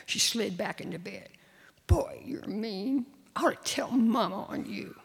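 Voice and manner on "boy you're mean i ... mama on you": put-on whiny little girl. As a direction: sulk it in a whisper. Sulking little sister.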